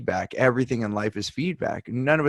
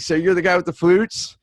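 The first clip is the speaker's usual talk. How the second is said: manager voice; 6 semitones higher, 6 dB louder than usual. Retold or imitated. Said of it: "he's like".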